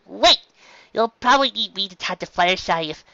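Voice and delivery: high, loud wait; calling after. A narrator's reading. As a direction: call after her as she leaves.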